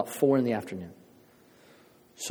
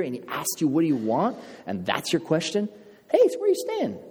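mocking scoff; 2 semitones higher than usual. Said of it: "some people will mock that, going".

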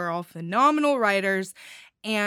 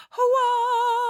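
loud gung-ho soldier; 6 dB louder than usual. Pretend. Cheering the grand prize winner.

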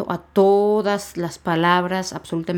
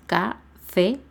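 "café" split into ca and fé; syllable by syllable. Shown as a demonstration. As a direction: break "café" into two beats, rising on fé. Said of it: "son dos sílabas".

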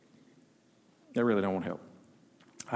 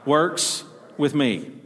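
call and response; much slower than usual. Shown as a demonstration. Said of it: "Everybody say".

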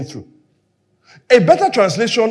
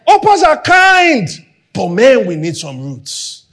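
preaching peak; 4 dB louder than usual. Real, not acted. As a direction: lift Orpahs are kind, then fall to a hush. Preaching peak, high and loud.

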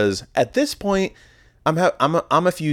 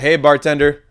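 calling out; 5 semitones higher, 6 dB louder than usual. Retold or imitated. Calling to the bartender.

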